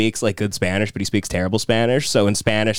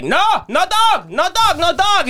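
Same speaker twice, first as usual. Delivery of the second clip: much higher, slow, louder imitation of the staff; mock restaurant staff; 4 dB louder than usual. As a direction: shoo him out, high and insistent. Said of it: "the Chinese guys would come out of the kitchen and be like".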